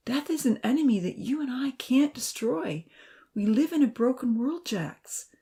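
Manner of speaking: gently earnest, explaining with care. Acted. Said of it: "speaking earnestly into the phone".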